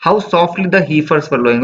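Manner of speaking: slow, measured recitation of the verse; poem reading. Acted. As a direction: read the line slowly, savouring it. Reading poem line slowly.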